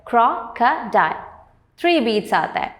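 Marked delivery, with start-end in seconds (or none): 0.1-1.2 slow "crocodile" as cro, co, dile; broken into syllables. Shown as a demonstration. Teacher breaking words into three parts, "crocodile" slow and split. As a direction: pause between the three beats of "crocodile". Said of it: "three parts".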